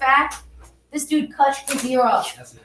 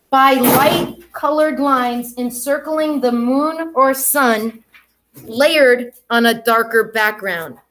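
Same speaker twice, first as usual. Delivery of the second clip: slow model reading; slower than usual. Shown as a demonstration. Teacher reads a model observation to students, slow and deliberate. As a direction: read it out very slowly and deliberately, word by word. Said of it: "listen to this".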